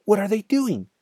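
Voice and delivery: high-pitched cry of a small fox. A narrator's reading. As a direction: cry it out high, like an alarmed child. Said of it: "cried the small foxes".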